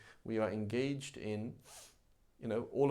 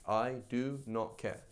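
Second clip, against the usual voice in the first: slow, deliberate indifference; drawn-out statement of not caring; callous attitude; slower than usual. Acted. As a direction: space the words out, utterly unbothered. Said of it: "That's their attitude".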